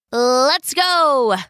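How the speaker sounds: rally your companion to set off; shout. Acted. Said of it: "shouted Hermes".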